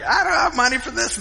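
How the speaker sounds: a touch of worried whine; stressed complaint. Retold or imitated.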